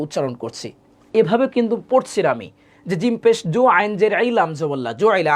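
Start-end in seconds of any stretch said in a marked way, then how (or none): 3.0-4.3 quick, unbroken recital of the letters; run-together spelling. Shown as a demonstration. Teacher shows how she doesn't spell, run together. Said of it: "আমি এভাবে বানান করি না". 4.4-5.3 quick, unbroken recital of the letters; run-together spelling. Shown as a demonstration. Teacher shows how she doesn't spell, run together. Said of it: "আমি এভাবে বানান করি না".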